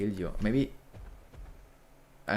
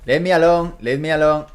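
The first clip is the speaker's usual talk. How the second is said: shrill, loud cry to be left alone; mock panic; 5 semitones higher, 9 dB louder than usual. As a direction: yell like a cornered little creature. Voicing a fleeing game creature.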